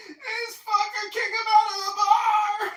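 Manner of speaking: put-on high, loud, slow drunken wail; mock crying shout. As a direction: scream it like a drunk crying girl. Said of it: "starts crying at the bar".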